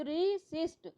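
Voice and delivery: "रेसिस्ट" split up, weight on सिस्ट; stress on second syllable. Shown as a demonstration. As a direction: say "रेसिस्ट" as two parts, pressing on सिस्ट. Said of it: "सिस्ट पे आपने जोर दिया". ("रेसिस्ट" में सिस्ट पर ज़ोर)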